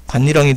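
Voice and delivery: "반니랑이" said [반니랑이], with double n; n insertion. Shown as a demonstration. Teacher repeating the noun case, "반니랑이" with nn. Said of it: "반니랑이 돼야 된다는 거".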